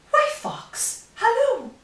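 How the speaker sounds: mouse's greeting. A narrator's reading. Mouse greets Fox before the Gruffalo, high cheery call.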